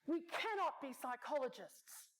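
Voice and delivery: drawn-out Brazilian exec protest; Brazilian accent. Retold or imitated. Exec refusing to be a psychologist, slow Brazilian accent. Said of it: "Brazilian accent".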